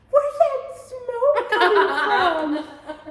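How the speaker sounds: suspicious teacher. Retold or imitated. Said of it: "was gonna be like".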